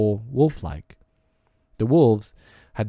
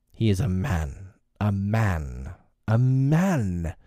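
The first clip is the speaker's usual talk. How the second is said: snarled; slower than usual. Acted. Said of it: "snarled the pack".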